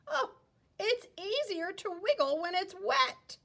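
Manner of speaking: high, bright little worm; cheerful worm voice. Acted. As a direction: answer like a happy worm. Worm answers the child.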